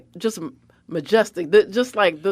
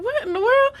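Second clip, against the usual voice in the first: retold amazement. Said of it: "I was like".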